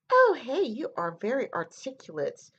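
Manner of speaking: imitating a passive-aggressive compliment. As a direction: fake friendly praise with a sneer underneath. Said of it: "said in a very passive-aggressive way".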